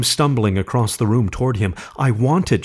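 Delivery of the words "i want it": plain reading voice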